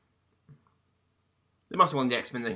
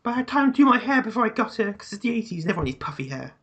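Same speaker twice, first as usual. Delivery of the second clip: mock angry character; 9 semitones higher than usual. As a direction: answer as the furious character. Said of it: "'cause you don't know what else to say".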